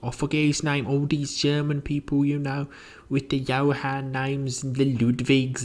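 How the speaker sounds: high-pitched, rambling housekeeper; chattering housekeeper. Acted. Housekeeper reminding the professor of his visitor, high and chatty. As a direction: coax him brightly in a high voice.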